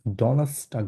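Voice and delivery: Donnerstag said "do-nas-tak", the R dropped; silent R. Shown as a demonstration. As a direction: say Donnerstag without sounding the R. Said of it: "এটাকে আরটা উজ্জ্বল রেখে বলেন". (Donnerstag-এ র উহ্য রেখে "ডনাস্টাক")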